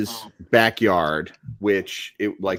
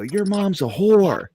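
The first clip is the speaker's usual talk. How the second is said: put-on kid yelling; 11 semitones higher, slower than usual. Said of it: "And so I yell it".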